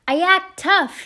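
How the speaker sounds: high, loud shout over the wind; big strained holler; yelled confession. A narrator's reading. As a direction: yell a secret out into the night. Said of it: "he yelled".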